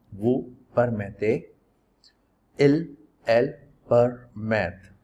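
slow, careful recitation of the conjugation for the class to repeat; slow practice recitation. Shown as a demonstration. Teacher reciting to the class, slow careful pronunciation drill. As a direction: spell out each form slowly so students can repeat it. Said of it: "मेरे साथ आप एक बार बोलने की practice करें".

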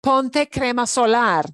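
Ponte crema solar said like a parent's order; a gentle instruction to a kid; model command. Shown as a demonstration. Teacher acts out telling someone to use sunscreen, mild command. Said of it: "You tell somebody, "Put on sunscreen".

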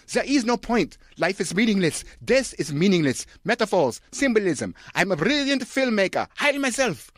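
very high, loud pompous rant; ranting director. Acted. Director defending his film to the audience, very high loud rant. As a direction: proclaim it like a mad genius. Von Trier voiced ranting.

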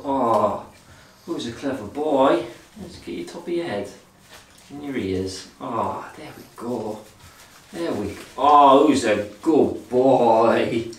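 slow, doting dog praise; squeaky praising a dog. Real, not acted.

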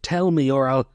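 a moderate acted shout; shouted demand. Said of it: "I shouted".

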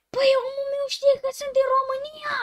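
high, loud, laughing disbelief; freaked-out laughing yell; shocked disbelief. Real, not acted. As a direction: shout it like the game read your mind. Game knows his country.

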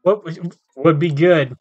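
a hint of the slow-talking student; slow-talking game girl. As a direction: lightly voice the student character. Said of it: "this is how she talks".

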